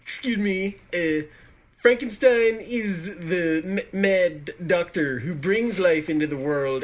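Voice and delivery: nasal know-it-all pedant voice; pedantic nerd voice. Acted. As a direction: correct them like a fussy nerd. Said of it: "sort of pedantic nerd voice".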